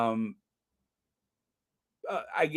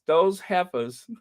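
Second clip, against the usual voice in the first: sassy emphasis; 5 semitones higher than usual. Shown as a demonstration. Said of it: "So, yes".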